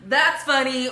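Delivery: high, loud amused voice for her husband; imitating a laugh. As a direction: toss it off with a quick laugh. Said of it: "Devontae was like".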